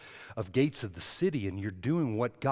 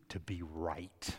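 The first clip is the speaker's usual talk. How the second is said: whisper; 7 semitones lower, 8 dB quieter, much slower than usual. Acted. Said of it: "whispered word of emphasis".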